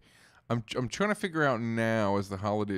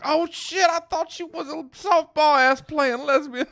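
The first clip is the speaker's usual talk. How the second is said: high, loud startled man; surprised guy; 8 dB louder, slower than usual. Retold or imitated. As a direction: yelp it in shock, slowly. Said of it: "And then he was like".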